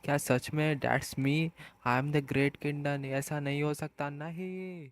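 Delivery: slow, fading into a soft stunned wail; a hint of a cat crushed by the truth, slow and fading; shocked despair. A narrator's reading. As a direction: disbelief draining away to a broken no. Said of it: "किंडन shock हो जाता है".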